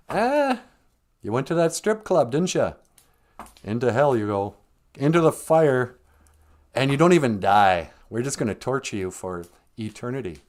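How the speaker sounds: lightly hammed-up sentencing to damnation; mock divine judgment. God sending a sinner to hell, mock-stern. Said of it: "So saith the Christians".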